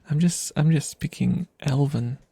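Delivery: usual speaking voice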